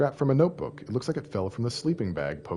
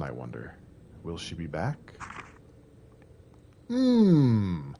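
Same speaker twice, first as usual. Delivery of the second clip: diary reading. Acted. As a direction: read it like a lonely diary. Reads diary notes in game.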